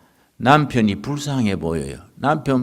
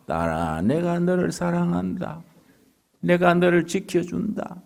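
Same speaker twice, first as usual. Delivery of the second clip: soft, tender words from above; hushed, tender divine reassurance; gentle voice of Jesus; 4 semitones higher, 6 dB quieter than usual. Retold or imitated. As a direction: speak as a loving Lord comforting her. Jesus speaks to the daughter.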